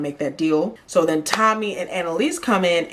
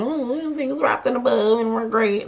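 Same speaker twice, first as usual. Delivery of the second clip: higher singsong mock cheer; mock peachy keen; 5 semitones higher than usual. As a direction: imitate their rosy chatter, mockingly. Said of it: "it was, like, all peachy keen".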